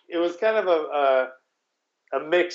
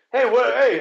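higher, louder mock protest; imitated calling out; 7 semitones higher, 4 dB louder than usual. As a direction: call after them like an abandoned ally. Retold woman calling after departing backup.

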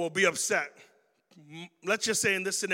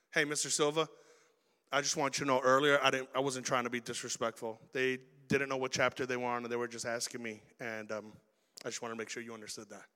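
much softer and lower, humble; respectful soft explanation; 7 semitones lower, 7 dB quieter than usual. Retold or imitated. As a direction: explain quietly after class.

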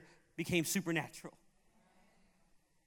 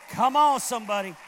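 loud preacher's shout, pitched up; congregation call-out; 9 dB louder than usual. Real, not acted. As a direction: holler to rouse the crowd.

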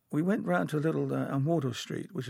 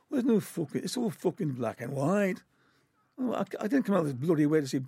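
put-on Scouse accent; 4 semitones higher than usual. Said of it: "I'm trying to do a Scouse accent here".

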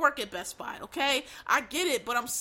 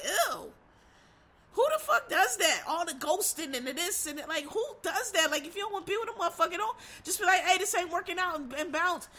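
disgusted Gen X; 3 semitones higher than usual. Retold or imitated. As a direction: sneer at the younger crowd's habits. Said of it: "we just kinda be like".

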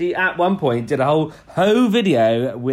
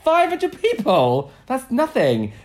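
very high, loud disbelief; slow, squawked mock outrage; incredulous scoff; 11 semitones higher, 4 dB louder, slower than usual. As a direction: repeat the figure as if absurdly small. Retells own scornful reaction.

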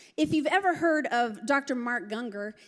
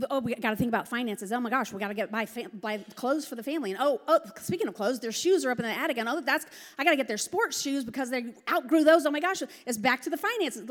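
racing thoughts; faster than usual. Retold or imitated. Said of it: "women's brains are like spaghetti noodles".

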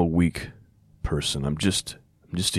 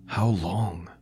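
whispered plea; 3 semitones higher than usual. Acted. Pleading line in psalm reading.

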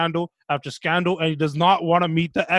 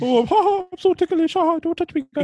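high-pitched mock giggling; being tickled; 11 semitones higher, 3 dB louder than usual. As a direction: squeal like you're being tickled.

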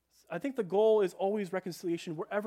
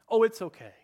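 a light mock child brushing it off, louder and higher; breezy kid brush-off; 5 semitones higher, 8 dB louder than usual. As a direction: toss it off like a kid who wants it over. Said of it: "and we would say".

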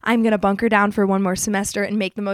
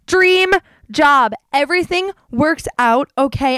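higher and louder, bursting with delight; thrilled; 4 semitones higher, 4 dB louder than usual. Retold or imitated. Retelling her reply to the surf shop offer, thrilled and loud. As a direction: squeal it like you just got the job. Reacting to being offered dream job.

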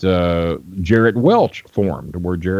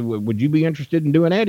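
much higher put-on old promoter voice; imitating Nick Gulas; 7 semitones higher, faster than usual. Old promoter greeting a young fan, high imitated voice. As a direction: play the old wrestling boss greeting a stranger, pitched way up. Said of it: "That, that's kinda how he talked".

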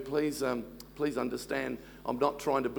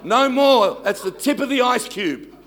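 higher, louder mock scolding shout; hammed-up dad yelling with laughter; playful mock yell at the daughter; 7 semitones higher, 7 dB louder than usual. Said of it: "I said to my daughter".

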